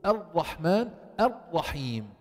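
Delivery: الرحمن الرحيم with steady, unrolled ra; controlled ra. Shown as a demonstration. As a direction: keep the tongue from trembling in الرحمن الرحيم. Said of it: "إنما ضبطه".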